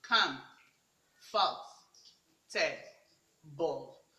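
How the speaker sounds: comfortable broken into four separate beats, long pauses between; each syllable of comfortable said alone; comfortable split into syllables. Shown as a demonstration. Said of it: "you have up to four syllables here".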